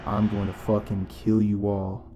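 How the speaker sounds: a touch of a screamed delusion; retold scream. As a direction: half-shout a mad grandiose rant. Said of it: "as I screamed something to the effect of".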